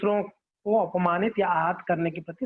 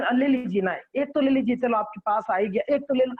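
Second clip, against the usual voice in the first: lightly voiced coaxing seller, a little raised; sweet-talking salesperson; 3 semitones higher than usual. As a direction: coax lovingly into buying one. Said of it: "इतना प्रेम मधुर से वो बात करते हैं". (प्रेम से मनाता विक्रेता, हल्का अभिनय)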